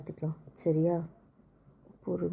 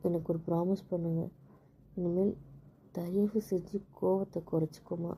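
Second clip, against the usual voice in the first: wife whispering a plea to her husband to let go of his anger; pleading whisper. Real, not acted. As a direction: whisper it, pleading with him to calm down. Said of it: "கெஞ்சி கேட்குறேன்".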